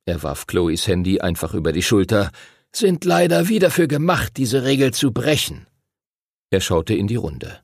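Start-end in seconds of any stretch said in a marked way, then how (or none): 2.8-5.7 strenger Ausbilder, nachdrücklich mit angehobener Stimme; strenger Master Duncan. A narrator's reading. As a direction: die Regel den Neulingen einschärfen. (strenger Ausbilder, eindringlich)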